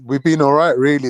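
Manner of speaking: repeating to be heard. Real, not acted. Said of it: "Say that again?".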